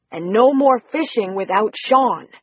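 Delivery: slow, firm but gentle scold; mild scolding. Acted. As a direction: set the rule for the little girl kindly. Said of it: "scolding tone".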